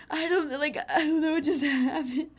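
high, loud, laughing through words; laughing re-enactment. Retold or imitated. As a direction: imitate a panicked cry while giggling. Re-enacts calling siblings, laughing.

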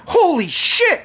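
high, reenacted cry of shock; shocked exclamation. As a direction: exclaim it in stunned disbelief. Shocked reaction to the prank.

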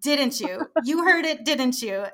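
retold accusation, rising into the challenge; mock accusing. Accusing the sound guy of hearing it, mock insistent. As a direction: playfully confront someone, pitch climbing.

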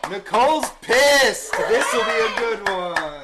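high loud slow guest intro; announcer voice. Pretend. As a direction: welcome them like a game show host.

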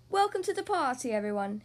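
big hearty booming voice; booming welcome. Acted. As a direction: boom it out to the guests. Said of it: "he booms".

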